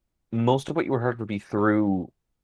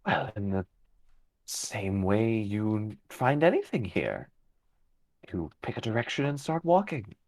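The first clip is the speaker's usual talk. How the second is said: calm fey guide. Acted. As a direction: speak as an unhurried, cryptic fey creature. GM voices a fey figure.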